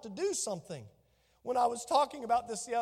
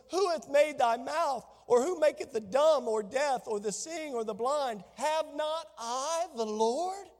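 booming voice of God; 3 semitones higher than usual. Acted. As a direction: proclaim it like God rebuking Moses. God's voice answering Moses.

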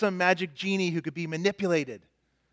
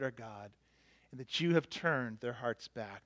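reverent prayer; 3 semitones lower, 4 dB quieter than usual. Shown as a demonstration. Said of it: "Here it is".

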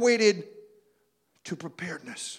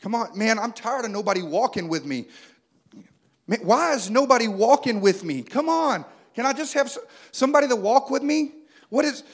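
lonely whiner; 4 dB louder than usual. Acted. Lonely man acting out valley walk.

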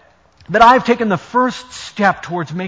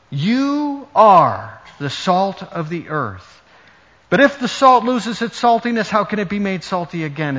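scripture reading. Acted. Reads Matthew five aloud.

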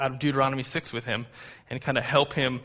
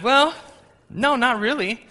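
put-on high-pitched, louder drawn-out answer to a child; reassuring dad; 10 semitones higher, 6 dB louder, slower than usual. Dad answering his son's question about frustration, high and reassuring. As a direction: imitate a dad letting his little one down gently.

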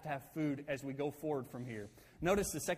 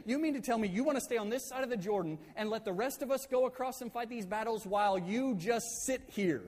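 incredulous retold rebuke, higher pitch; freaking out; 5 semitones higher than usual. Moses challenging tribes who would sit out battles, mildly freaking out. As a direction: act out indignant disbelief. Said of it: "He absolutely freaks out".

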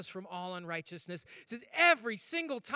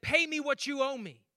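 high, louder mock threat; threatening demand; 5 semitones higher, 5 dB louder than usual. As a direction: grab him and demand payment. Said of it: "grabbed that man by the shirt".

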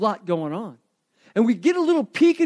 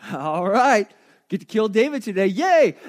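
mock gleeful enemy; 4 dB louder than usual. Enemies gleeful about killing David.

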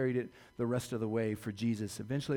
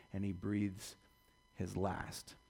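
much softer and lower, fading; hushed; 7 semitones lower, 7 dB quieter, slower than usual. A narrator's reading. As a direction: let the last words die away. Death of Jesus narrated.

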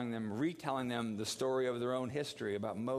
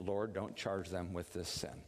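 quiet group prayer; 7 semitones lower, 4 dB quieter than usual. Shown as a demonstration. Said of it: "All right".

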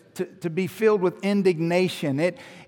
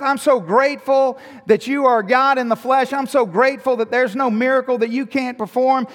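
thankful, happy; 7 semitones higher, 8 dB louder than usual. Acted. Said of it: "in a thankful, happy sense".

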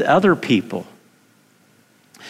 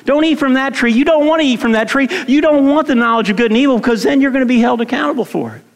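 God's command; 5 semitones higher, faster than usual. Retold or imitated. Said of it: "because God said".

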